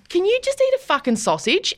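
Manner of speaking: high, laughing mock exasperation; imitating exasperated mum, laughing. Mum fed up with dad's gravy demands, laughing mock exasperation. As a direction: fire it back at him through laughter. Mother snapping back at father.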